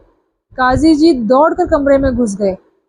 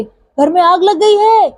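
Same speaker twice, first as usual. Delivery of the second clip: slow, higher shout of alarm; shouting loudly; 5 semitones higher, slower than usual. A narrator's reading. Sheikh finally shouts the news to the Qazi, slow loud shout. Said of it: "काफी तेज स्वर में चीख पड़े".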